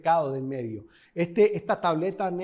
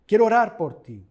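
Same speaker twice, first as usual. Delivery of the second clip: a sudden louder, earnest offer to pray; 3 semitones higher, 8 dB louder than usual. Real, not acted. Pastor offering his congregation prayer, loud and earnest. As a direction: lift the voice on quiero.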